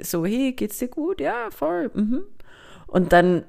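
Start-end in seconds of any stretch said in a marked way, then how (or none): 0.2-2.2 high, breezy small talk. Retold or imitated. Acting out a ghosting chat.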